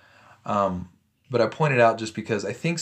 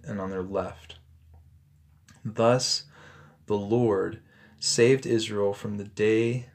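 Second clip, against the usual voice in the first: measured, solemn Bible reading; scripture reading; 3 semitones higher than usual. Acted. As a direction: read the passage to the congregation with weight.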